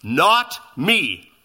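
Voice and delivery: short, curt and firm; terse emphatic denial. Retold or imitated. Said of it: "he is emphatic".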